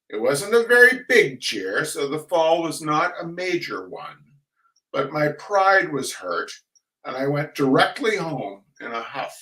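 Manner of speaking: dry, measured reading of a humorous essay; story reading. A narrator's reading. Reader sharing a Benchley essay with the audience, dry and measured. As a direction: read it like a wry old memoir.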